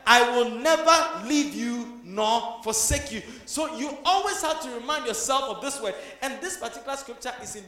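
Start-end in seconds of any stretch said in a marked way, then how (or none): 0.1-3.2 "never" stretched and leaned on, slow and louder; slow stress on never. Shown as a demonstration. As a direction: hammer the word "never" slowly. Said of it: "and the word is what? Never".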